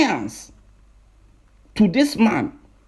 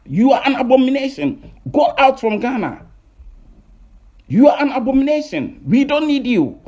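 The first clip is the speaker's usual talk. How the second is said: raised, annoyed scolding; indignant public rant, raised pitch; 4 semitones higher than usual. Real, not acted. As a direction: tell him off, fed up and insistent. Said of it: "we are speaking with annoyance".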